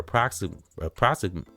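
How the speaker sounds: stumbling over the word; stuttering on the word. Real, not acted. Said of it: "forgive me, I'm stuttering".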